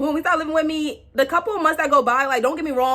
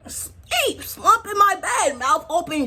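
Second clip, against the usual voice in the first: mock sleepy; 5 semitones higher, slower than usual. Mocking him asleep.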